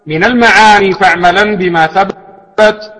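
measured, lilting recitation of verse; poem recitation. Acted.

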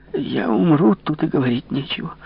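высоким голосом растерянного коменданта; пролепечи обречённо, уходя; растерянное бормотание. Acted. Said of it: "бормотал комендант". (высокий растерянный голос коменданта)

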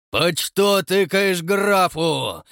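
slow, high, loud yell; terrible bellow. A narrator's reading. Count bellows at the watchman in a terrible voice. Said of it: "завопил ... страшным голосом".

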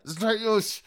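high gurgling cries getting shriller; gurgling alien voice. A narrator's reading. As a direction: choke out the pleas through blood. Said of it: "пробулькал Тадино".

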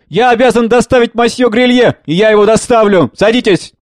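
loud, high, indignant insistence; angry. A narrator's reading. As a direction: insist on it angrily. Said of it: "Сердито". (сердито, на повышенных тонах)

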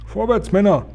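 high, loud battle cry; rallying shout. A narrator's reading. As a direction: call the troops forward. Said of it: "rief der Oberkommandierende". (lauter, hoher Ruf an die Männer)

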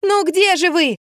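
high, pleading call; almost sobbing the question; desperate cry from the closet; near tears. A narrator's reading. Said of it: "чуть не зарыдала я".

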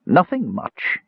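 put-on high, feeble old woman; weak. A narrator's reading. Old woman answering Tanis's offer of help, weakly. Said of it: "she said weakly".

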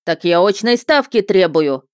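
shrill indignant cry; squeal. Acted. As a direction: squeal in outrage. Prisoner keeps protesting.

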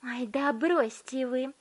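high, slow brush-off; dismissive girl. A narrator's reading. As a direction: wave him away with scorn. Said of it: "отмахнулась от него Виолетта".

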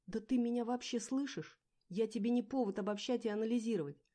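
high, loud yell; loud desperate yelling. A narrator's reading. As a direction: scream it in his face. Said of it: "заорала я".

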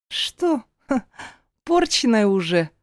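high mocking sneer with a scoff; snide sneer. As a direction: taunt her with a spiteful little laugh. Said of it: "поинтересовалась она с ехидной усмешкой".

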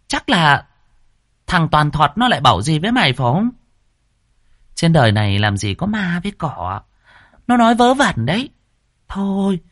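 high, scolding mistress voice; giọng bà ba. Acted. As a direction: brush off his fear, bossy and shrill-high. Giọng bà ba gắt. (giọng bà chủ cao, gắt gỏng)

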